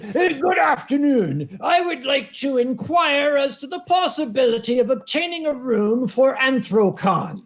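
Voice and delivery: mock the caller's overly formal, fussy phrasing; pedantic caller. Mister Smelly phoning the hotel, lightly mocked pedantic voice. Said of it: "very, uh, recognizable way of speaking ... pedantic".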